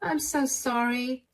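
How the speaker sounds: soft, slow, teary sorry; a mother apologizing through quiet tears; tearful apology. Acted. Mother, crying, apologizes softly to her daughter. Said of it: "Are you crying?".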